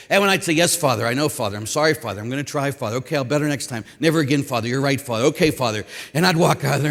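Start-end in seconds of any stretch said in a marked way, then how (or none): 0.5-5.9 lightly voiced meek string of replies, lower; teenager placating priest. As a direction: rattle off submissive answers as a scolded kid. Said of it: "I was a typical seventeen-year-old high school kid".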